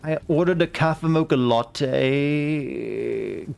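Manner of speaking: put-on very slow valley girl drawl; drawn-out vocal fry valley girl. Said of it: "I am insulting all Californians tonight".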